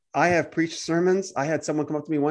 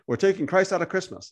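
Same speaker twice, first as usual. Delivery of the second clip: objection; 3 semitones higher than usual. Acted. Imagined objector complaining about Christmas, mildly protesting. Voices an objector, then answers.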